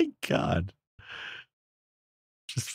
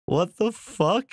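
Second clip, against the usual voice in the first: shocked; 12 semitones higher, 4 dB louder, much slower than usual. Real, not acted. Shocked reaction to sudden scare.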